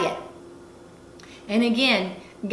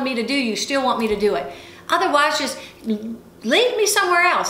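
high, insistent retold prayer; furious pleading; 5 semitones higher than usual. Speaker begging God for a sign, retold exasperated fury. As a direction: plead in exasperation, demanding an answer. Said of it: "I'm furious, and I said".

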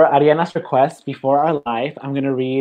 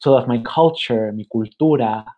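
measured, deliberate poem reading; poetry reading. Acted. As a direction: read it like a spoken-word poet. Reads poem aloud.

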